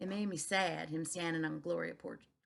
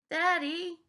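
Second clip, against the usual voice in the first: tender cry; 10 semitones higher, 7 dB louder than usual. A narrator's reading. Daughter moved by father's tears.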